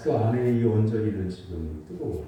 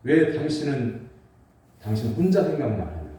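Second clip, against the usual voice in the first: mock-indignant wife, louder at the start of each protest; stern wifely retort; 2 semitones higher, 4 dB louder than usual. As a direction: retell a wife's serious objection, pushing the openings. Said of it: "아내가 정색을 하면서 말해요". (정색하고 따지는 아내 흉내)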